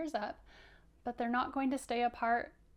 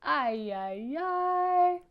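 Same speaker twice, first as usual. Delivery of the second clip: rising into a much higher, loud "ay"; mock worry; 6 semitones higher, 8 dB louder, much slower than usual. Shown as a demonstration. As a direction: cry "ay" playfully. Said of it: "Can you do it like him?".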